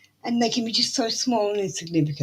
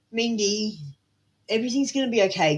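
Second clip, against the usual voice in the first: reassuring; 3 semitones higher than usual. Shown as a demonstration. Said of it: "Can you just tell yourself that right now?".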